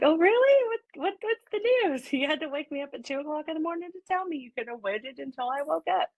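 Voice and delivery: jolted awake at two in the morning, voice leaping up; retold surprise. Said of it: "And I was like".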